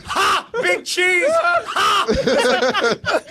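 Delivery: a man in the audience howls at the joke; crowd guy yelling. Retold or imitated. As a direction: bark it out like a rowdy moviegoer. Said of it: "He just went".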